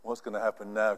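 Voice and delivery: low, hushed, dismayed murmur; worried angels. Retold or imitated. Angels fretting over a proud believer, in a low hushed voice. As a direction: sigh it like a head-shaking angel. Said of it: "the angels shaking their heads and saying".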